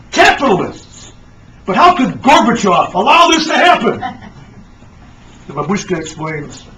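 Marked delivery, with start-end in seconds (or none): 0.1-4.0 can't believe his ears; disbelief. Acted. Astronaut hearing the news from grandma, stunned disbelief. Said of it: "The astronaut can't believe it".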